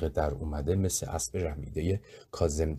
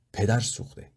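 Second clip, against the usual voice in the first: angry shout; 5 semitones higher than usual. A narrator's reading. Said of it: "با عصبانیت سرم داد کشید".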